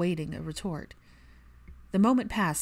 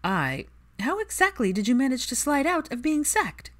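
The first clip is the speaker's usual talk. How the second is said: higher, louder scolding rant; Pansy voice, incredulous; 8 semitones higher, 4 dB louder than usual. A narrator's reading. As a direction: tear into him, half amused, half appalled.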